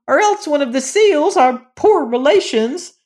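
high raging creature voice; dwarf scream. Acted. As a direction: threaten the boy as a raging dwarf. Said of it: "he screamed".

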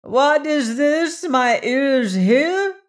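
high, loud, slow furious cry; furious priest. Acted. Nam crying out in fury at the new law, high and loud. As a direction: ring out in outrage like a clarion. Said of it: "in a voice of fury".

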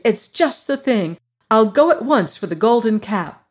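light up at the idea; joyful. Acted. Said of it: "said Dorothy joyfully".

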